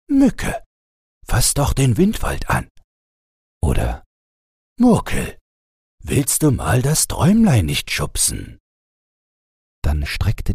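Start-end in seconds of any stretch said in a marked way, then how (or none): 0.1-2.7 put-on high calling out of the name, urging the child on; cheering call. A narrator's reading. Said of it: "er feuerte die Kinder an und rief". 4.8-8.6 put-on high calling out of the name, urging the child on; cheering call. A narrator's reading. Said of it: "er feuerte die Kinder an und rief".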